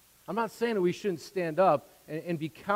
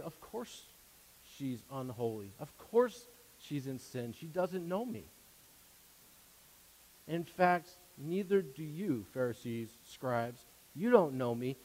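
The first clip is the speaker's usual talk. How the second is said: much softer, calm and unhurried, no heat at all; quiet gentle reproach; 4 semitones lower, 8 dB quieter than usual. Acted. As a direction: speak it low as a patient, loving rebuke. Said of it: "shows them something quietly".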